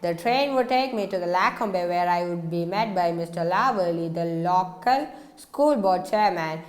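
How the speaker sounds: even, unhurried audiobook reading; steady storyteller voice; story narration. A narrator's reading. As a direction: read the novel aloud to listeners. Reads a novel aloud.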